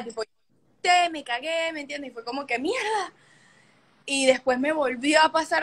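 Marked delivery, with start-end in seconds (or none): 2.6-3.1 sudden high startled curse. Retold or imitated. Retelling the crow swoop, a startled high curse. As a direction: blurt it out in fright.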